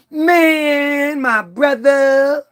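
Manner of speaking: very slow, drawn-out street talk; lightly imitating a guy from the documentary; street voice imitation. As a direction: stretch out man and my brother like a brother on the block. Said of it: "talks like this".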